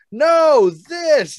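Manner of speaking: high, loud mocking voice correcting him; squeaky know-it-all search engine. Friend mocking Google's snotty correction, high and loud.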